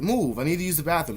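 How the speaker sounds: brusque retold demand; imitated rude demand. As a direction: order it bluntly, imitating a rude guest. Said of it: "That's how she fucking said it".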